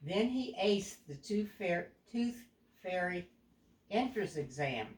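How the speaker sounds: put-on a clear, even storybook read to a young child; storytelling narration. A narrator's reading. Parent reading a picture book aloud to a child, storybook voice.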